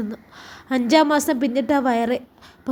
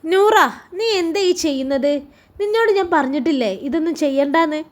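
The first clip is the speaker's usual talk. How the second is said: a husband warning his wife off the chores, mildly menacing; threatening call; 3 semitones higher than usual. Acted. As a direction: shout the name, then a firm warning. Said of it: "ഭീഷണിയുടെ സ്വരമാണ് റാജിയുടെ വിളിയിൽ".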